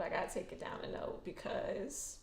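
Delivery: whispered, toned right down; dropped to a whisper. Real, not acted. Vlogger calming herself down for viewers, whispered. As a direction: bring it down to a hush.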